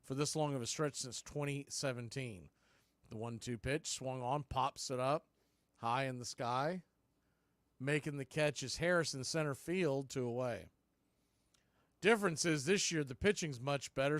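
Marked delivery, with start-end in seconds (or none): 3.1-10.7 steady radio call, pitch by pitch; live play-by-play. Real, not acted. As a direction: call each pitch to the listeners.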